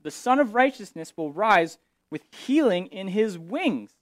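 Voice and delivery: lifted, proclaiming scripture line; mild mock-archaic proclamation; ancient prophetic phrasing. Shown as a demonstration. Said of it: "Back then, they spoke like that".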